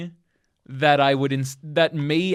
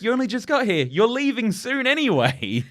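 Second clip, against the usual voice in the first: high mock disbelief; 10 semitones higher, 4 dB louder than usual. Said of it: "they're like".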